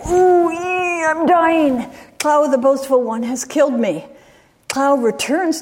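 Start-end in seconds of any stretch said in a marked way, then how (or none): 0.1-4.0 lightly voiced wife calling out that she is dying; cried out. Stabbed wife crying out before sunrise, a mildly acted anguished call. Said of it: "she cried".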